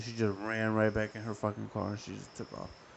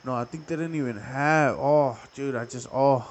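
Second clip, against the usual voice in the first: louder, startled oh wait, catching himself mid-story; sudden realization; 9 dB louder than usual. Real, not acted. Correcting his own childhood story, suddenly loud and startled. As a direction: blurt it out as the memory suddenly hits.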